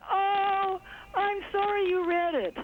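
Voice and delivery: choked up, half crying, half laughing; tearful. Real, not acted. Emotional memory of late president.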